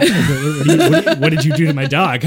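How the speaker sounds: high, loud, stammering mock outrage; retold yelling. Dog owner accusing him over the cat, yelling. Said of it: "like, yelling at me".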